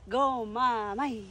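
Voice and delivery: slow, soft chant of encouragement; drawn-out cheer. Real, not acted. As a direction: stretch it out like a gentle chant. Cheering friend on to drink. (mahinahon at pahabang pag-cheer)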